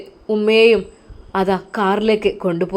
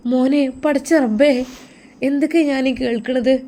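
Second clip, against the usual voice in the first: shocked mother; 5 semitones higher than usual. Acted.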